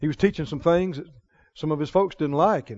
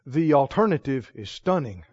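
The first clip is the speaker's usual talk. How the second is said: soft, low, smiling calm answer; a quiet grin in the words; smiling reply; 6 semitones lower, 6 dB quieter than usual. Retold or imitated. Oral Roberts smiling back at the worried questioner. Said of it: "he smiled and he said".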